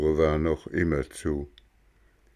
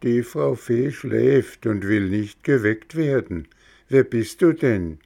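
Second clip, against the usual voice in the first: lightly voiced high snail calling down; 4 semitones higher, 4 dB louder than usual. Schnecke antwortet vom Fenster. (leicht höhere Schneckenstimme)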